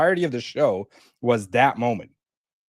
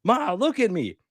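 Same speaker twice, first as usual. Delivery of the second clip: imitating Penguin; 6 semitones higher than usual. Penguin pleading to unresponsive mother.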